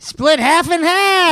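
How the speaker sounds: high, loud, stretched-out yell; triumphant chiming-in shout; shouted answer. Real, not acted. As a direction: belt it out slowly and high.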